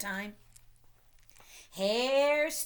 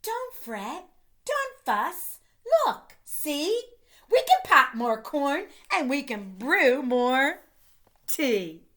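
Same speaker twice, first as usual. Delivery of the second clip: higher, lightly squeaky soothing; a little mouse calming the upset bear; 3 semitones higher, 4 dB louder than usual. Acted. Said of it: "And Mouse squeaks".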